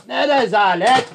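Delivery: high, slow outraged cry; indignant shout. Acted. Guest protesting the slow service, outraged shouting. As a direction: draw it out in rising outrage. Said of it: "lütfen bağırmayın".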